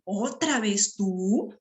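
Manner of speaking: slow, drawn-out weary question; very slow exasperated exclamation. Shown as a demonstration. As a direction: drag it out, fed up. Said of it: "Interrogo y exclamo".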